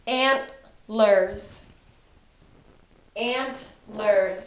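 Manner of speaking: Antlers split into two beats; syllable demo. Shown as a demonstration. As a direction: say ANT-lers clearly. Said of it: "That has two syllables".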